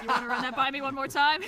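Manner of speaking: put-on Brooklyn accent. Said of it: "unconvincing Brooklyn accent".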